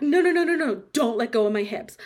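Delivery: loud frantic pleading; panicked. Acted. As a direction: beg him not to let go. About to fall, begging.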